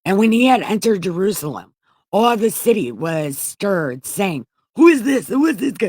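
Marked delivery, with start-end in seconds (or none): 4.8-5.9 high, loud, amazed double question; astonished crowd. Acted. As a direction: gasp it out as a stunned crowd. The city stirred, crowd asking.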